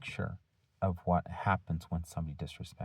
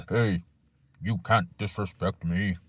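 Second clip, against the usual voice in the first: a hint of a put-on tough guy, slow and louder; mock tough guy; 5 dB louder, slower than usual. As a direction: lightly play the macho teacher squaring up.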